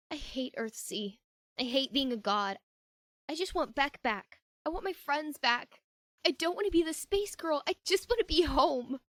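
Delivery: a faint tremble building at the end; holding back tears, barely; fighting tears, voice on the edge of breaking; voice starting to shake. Acted. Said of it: "her voice began to shake".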